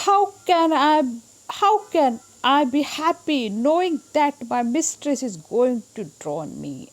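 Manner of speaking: slow, loud, high mild cat lament; sad cat. Acted. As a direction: complain as the old cat, drawn out. (बिल्ली की हल्की उदास शिकायत)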